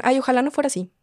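mock weary mother giving up; a parent calling the child over to hit him; resigned parent about to hit.

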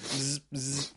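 soft mouth buzz like a phone; phone vibrating buzz. Retold or imitated. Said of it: "he's like".

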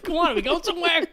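high, fast impatient call. Retold or imitated. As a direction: hurry the group along.

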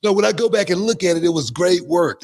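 defending the work, rising and animated; excited insistence. Real, not acted. To the host, insisting the accent was great work, excited and high. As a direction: voice jumps high with eager conviction.

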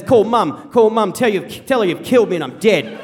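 retold frantic order. Wounded dad throwing his phone, an acted urgent demand. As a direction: order it loudly, as an imitated outburst.

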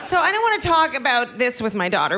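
usual speaking voice

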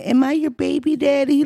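imitated high baby-talk question. Imitated woman texting her boyfriend Leon, baby talk. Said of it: "Go ahead with that baby talk".

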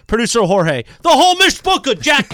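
high, bright punchline; excited. Acted. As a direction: toss it off with a grin. Playful shout-out, high.

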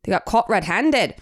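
mock Scottish accent, drawn out; lightly put-on Scottish lilt at a slow pace. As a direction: quote it as a Scot would. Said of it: "kinda have a good Scottish accent".

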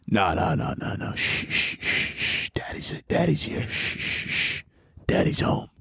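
calm them down with a hushed voice; mock soothing hush. Hushing a startled listener.

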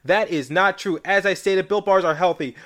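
upbeat pitch for a snack bar; ad read. Acted. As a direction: sell the product like a radio spot. Sponsor ad read.

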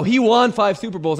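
"won" as wahn, said with conviction; insisted odd pronunciation. Shown as a demonstration. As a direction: insist on "won" rhyming with John. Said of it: "I'm sounding them each out".

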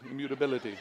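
immutability with every syllable crisp and a laugh; im-mu-ta-bil-i-ty, lips working hard; over enunciating. Shown as a demonstration. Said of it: "Makes my lips move in ways".

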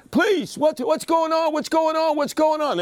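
high, frantic pleading, repeated; a sister crying out in panic; panicked sister. Retold or imitated. Sister wailing for her brother.

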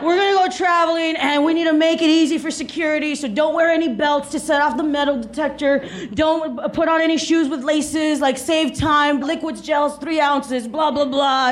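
lightly voiced anal planner with a Jewish accent. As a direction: rattle off travel rules in a put-on Jewish accent. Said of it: "That's my Jewish accent".

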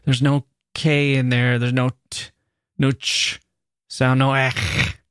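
hard K, a crisp "t", "ch" and throaty "ech"; demonstrated hard consonants. Shown as a demonstration. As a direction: spit out each hard sound: "K", "t", "ch", "ech". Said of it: "The S's and vowels and soft consonants".

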